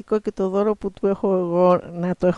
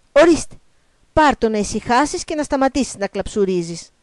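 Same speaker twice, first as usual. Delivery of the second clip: loud, higher start, then brisk scolding; impatient frog; 4 semitones higher, 5 dB louder than usual. Acted. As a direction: hand it over with mild exasperation. Frog impatient with whining princess. (ανυπόμονα, λίγο μαλωτά)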